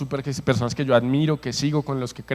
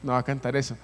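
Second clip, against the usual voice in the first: softer, inward protest to God; inner refusal; 2 semitones lower, 6 dB quieter than usual. Retold or imitated. Preacher retelling his silent prayer, quietly. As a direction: say it under your breath, as if only inside. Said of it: "y yo por dentro decía".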